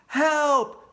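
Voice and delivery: loud high cry for help; shouted. Acted. Neil panicking at the bear, loud shout. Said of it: "Shouted Neil".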